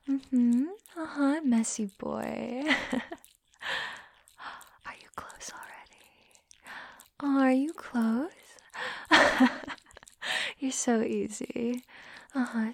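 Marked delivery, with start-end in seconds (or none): 4.8-7.4 slow, soft breath of a question; teasing whisper. Acted. Dominant teasing partner with a question, slow whisper. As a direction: whisper it slowly, drawn out.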